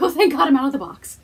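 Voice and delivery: loud, high relieved voice for the cat; pet's voice. Pretend. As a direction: voice the pet sighing with relief. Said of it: "He's like".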